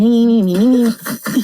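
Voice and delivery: imitated laughter. Son imitating the laughter his mother would hear, mock giggling. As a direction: mimic a stream of children's laughter. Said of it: "when my mommy is hearing laughter".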